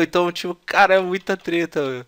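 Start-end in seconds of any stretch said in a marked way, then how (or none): none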